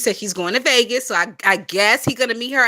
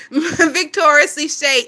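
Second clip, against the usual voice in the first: amused; 5 semitones higher, much slower than usual. Real, not acted. Repeats the name, laughing, drawn out.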